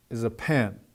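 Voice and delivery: "is a" hurried lightly into a stressed "pen"; "pen" carries the weight, falling; quick into stress. Shown as a demonstration. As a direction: glide straight through "is a" to land on "pen". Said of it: "quickly right into the stress".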